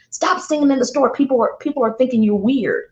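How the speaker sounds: high, pleading kid voice mocking his mom; imitating young son. Son scolds mom in store.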